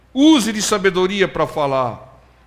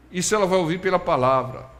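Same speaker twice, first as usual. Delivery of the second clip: ordinary talk, nothing marked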